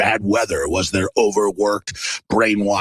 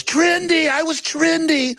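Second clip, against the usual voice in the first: dying gazelle voice. Retold or imitated. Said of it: "And the gazelle goes".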